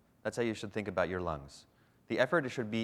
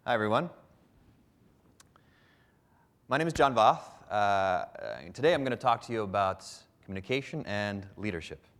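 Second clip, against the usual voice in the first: oversell it with a fake grin; eager salesman. Shown as a demonstration. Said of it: "Try something else".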